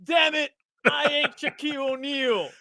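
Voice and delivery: high, exasperated retort; mock annoyed retort. Cornbread turning on the kid, mock annoyed retort. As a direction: brush the kid off with irritation. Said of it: "Cornbread turns around".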